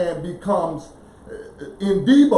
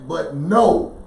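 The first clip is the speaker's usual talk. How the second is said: "know" punched louder after a pause; emphatic KNOW; 2 semitones lower, 5 dB louder than usual. Shown as a demonstration. Setting knowing against believing, emphatic stress on "know". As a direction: come down firmly on "know".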